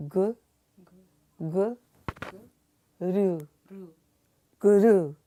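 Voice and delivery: "guru" with "gu" leaned on, then "ru"; "gu", "gu", "ru", then a full "guru"; stress on gu. Shown as a demonstration. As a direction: build to a loud "guru", weight on "gu". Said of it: "little emphasis on the gu".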